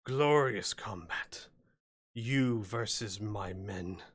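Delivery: lightly voiced sly hobgoblin, slow and menacing; a hint of a gloating goblin chief. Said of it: "the hobgoblin says".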